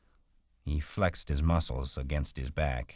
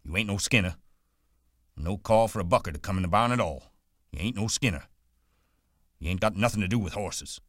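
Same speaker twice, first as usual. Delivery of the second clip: higher, scolding stable hand; scornful Crooks; 4 semitones higher, faster than usual. A narrator's reading. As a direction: belittle Lenny's place in the barn. Crooks voiced in story.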